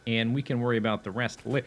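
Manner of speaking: hiccuping mid-word; hiccups. Real, not acted. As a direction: talk through hiccups. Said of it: "Oh, I'm hiccuping".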